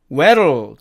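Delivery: "where'll" as one syllable "werl"; contracted where'll. Shown as a demonstration. Teacher shortening where will, contracted. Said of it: "where will은".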